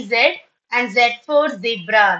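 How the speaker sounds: "Z" said as zed; short e in both "Z" and "zebra"; British pronunciation. Shown as a demonstration. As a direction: say "Z" to rhyme with bed, "zebra" as zeb-ra. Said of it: "my teacher taught me that".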